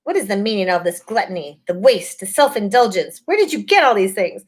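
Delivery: high cold witch threatening; high menacing witch queen. A narrator's reading. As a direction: threaten them with a sneer. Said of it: "she said again".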